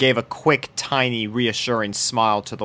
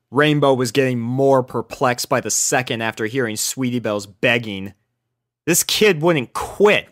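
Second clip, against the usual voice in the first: usual speaking voice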